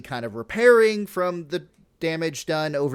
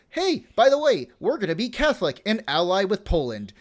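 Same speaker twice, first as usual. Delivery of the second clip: mock breezy tsar; 6 semitones higher than usual. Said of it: "he decides".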